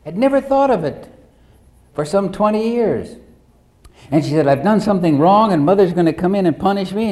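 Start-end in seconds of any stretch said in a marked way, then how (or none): 4.5-7.1 put-on higher, louder and fast, like a little girl afraid of punishment; mock frightened child. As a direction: blurt it out as a scared six-year-old. Girl's frightened memory, retold again.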